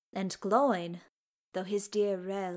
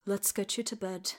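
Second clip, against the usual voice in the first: gently; 4 dB quieter than usual. Acted. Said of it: "Gimli said gently".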